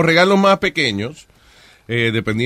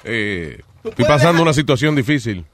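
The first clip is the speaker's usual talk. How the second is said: mouth full. Real, not acted. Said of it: "le di el primer mordisco y ahora tengo que hablar al aire".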